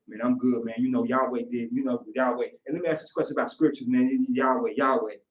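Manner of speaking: low, monotone devout rambling; single-minded believer. Acted. Man answering a greeting only with Yahweh talk, low monotone.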